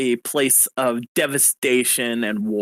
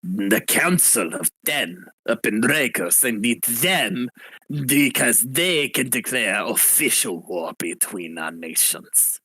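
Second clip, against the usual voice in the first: put-on angry French accent. Rebel leader demanding war from the party, in a light French accent. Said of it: "going for more of a French accent".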